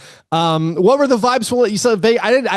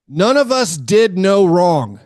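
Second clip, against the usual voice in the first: quoting deadpan; 2 semitones higher, slower than usual. Retold or imitated. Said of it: "and I quote".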